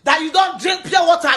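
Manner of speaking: hammed-up shouted imitation; mock shout.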